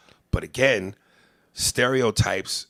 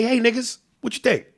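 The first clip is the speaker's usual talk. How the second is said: mock naive greeting; 13 semitones higher than usual. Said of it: "And say".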